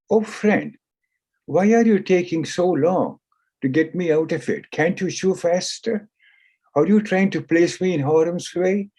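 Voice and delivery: frustrated plea. Acted. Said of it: "The cat got frustrated and said".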